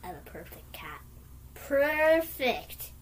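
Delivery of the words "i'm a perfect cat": lightly voiced cat, low and soft; hint of a purring cat. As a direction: purr it like a smug cat. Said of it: "trying to purr".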